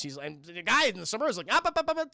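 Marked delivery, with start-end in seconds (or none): 1.5-2.1 hushing interruption. Acted. Acting man interrupting to calm.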